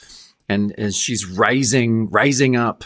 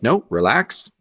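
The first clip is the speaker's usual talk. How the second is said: mock self-calming; 4 semitones higher than usual. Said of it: "he's talking to himself".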